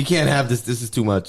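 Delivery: a mock-flustered machine saying no; mock alarmed chatbot. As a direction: play the nervous censor bot. Bing flagging the prompt, mocked.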